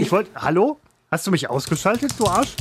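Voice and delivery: loud, annoyed call-out. Real, not acted. Thinks he is muted.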